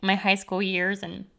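real emotion, halting with long pauses; close to tears. Real, not acted. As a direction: pause to hold back tears. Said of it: "I was not expecting to cry".

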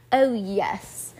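put-on play-posh English accent; proper English accent. A narrator's reading. Friend answers the Christmas queen, proper English accent. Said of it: "Lucy said in the same accent".

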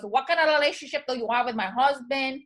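lightly imitated Puerto Rican wife; hint of a thick Puerto Rican accent, questioning a rival. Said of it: "pretending to be the Puerto Rican wife".

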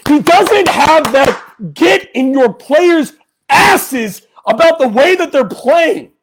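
a pissed off fan shouting into the microphone; angry shouting. Real, not acted. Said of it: "why I'm screaming into the microphone".

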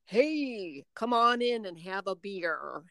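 lightly voiced folksy giant, hearty welcome; a hint of a big friendly lumberjack; mock Paul Bunyan. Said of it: "I start speaking like Paul Bunyan".

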